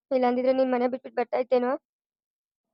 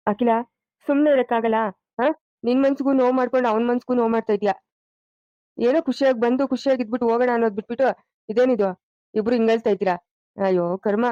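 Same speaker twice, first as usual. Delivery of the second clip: firm, raised-voice telling-off; exasperated scolding; 4 dB louder than usual. Acted. Elder tells Akhila to stop upsetting everyone, exasperated scolding. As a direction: scold them out of their weeping.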